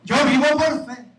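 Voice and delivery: loud, mock prosperity preacher; mock decree, hammed up. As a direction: ham up a greedy televangelist.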